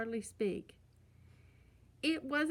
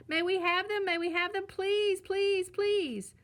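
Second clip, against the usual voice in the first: higher, louder repeated pleas of whining cubs; loud begging; 9 semitones higher, 6 dB louder than usual. A narrator's reading. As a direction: nag over and over like fussing kids.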